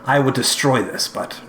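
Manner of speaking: slightly high-pitched vault keeper; lightly voiced mentor weighing a danger; musing mentor Olgath.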